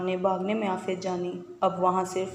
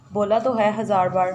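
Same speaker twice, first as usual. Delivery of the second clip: louder, scolding her brother in a huff; angry outburst; 6 dB louder than usual. Acted. Sister fed up with her brother's teasing, angry loud retort. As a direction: snap it like an irritated little sister.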